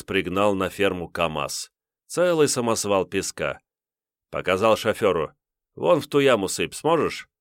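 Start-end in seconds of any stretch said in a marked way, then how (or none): 5.7-7.3 higher, commanding order; bossy instruction to the driver; gruff boss voice. Acted. Lithuanian priest instructs driver.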